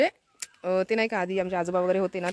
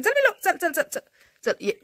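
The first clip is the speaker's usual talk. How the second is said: much higher sing-song coaxing call; calling the pet; 10 semitones higher, 3 dB louder than usual. Real, not acted. Vlogger coaxing her pet Anamika inside, high sing-song call. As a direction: coax the little pet indoors with a high, louder call.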